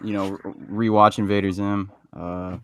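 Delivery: low, soft, calm outro read; calm voice imitation. Friend mimics a cohost's calm sign-off, lightly done. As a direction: keep it soft and unhurried like your friend. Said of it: "You know, the calm voice".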